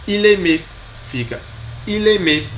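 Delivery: il aimait, linked, eel-eh-MEH; model pronunciation. Shown as a demonstration. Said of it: "Pronunciei também para vocês treinarem".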